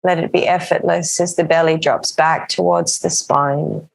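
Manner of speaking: calm, even yoga-teacher voice with long pauses; settled meditation-class delivery; guided breathing practice. Acted. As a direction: guide them gently into the breath, unhurried.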